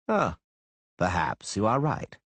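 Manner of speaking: dispassionate. A narrator's reading. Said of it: "Chapelle answered dispassionately".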